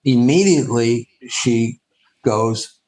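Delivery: ordinary talk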